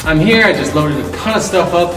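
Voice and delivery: talking in an empty echoing shop; echoey empty room. Real, not acted. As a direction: voice bouncing off bare walls. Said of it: "it's so echoey in here".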